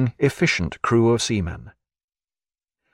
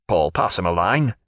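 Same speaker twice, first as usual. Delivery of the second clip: milder tone. Acted. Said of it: "in a milder tone".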